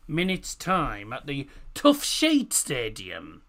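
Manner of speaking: slow, deliberate Tough Sheet Stadium; careful pronunciation. Shown as a demonstration. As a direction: spell the name out slowly. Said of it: "I did pronounce that correctly".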